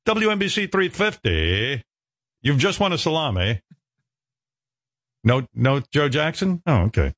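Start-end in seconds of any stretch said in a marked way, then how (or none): 0.0-3.6 radio DJ voice. Pretend. Pretend DJ read.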